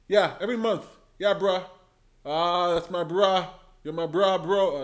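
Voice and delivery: casual bro Yang. Retold or imitated. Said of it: "Andrew Yang is like".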